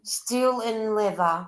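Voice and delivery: slow, each word spelled out clearly. Shown as a demonstration. Repeating the viewer's name slowly for the listener who missed it. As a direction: say the name slowly so she can catch it. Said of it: "H-, h-, hang on".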